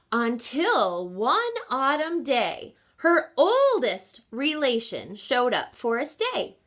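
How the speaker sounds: lilting storybook read-aloud; gentle picture-book narration; reading to children. Acted. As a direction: read the rhyme to a class.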